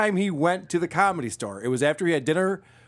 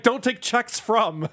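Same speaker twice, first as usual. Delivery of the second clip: slow mock sign; 5 semitones higher, slower than usual. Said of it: "Unless it's like".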